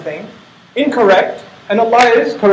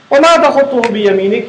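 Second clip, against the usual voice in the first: Quran recitation; much faster than usual. Acted.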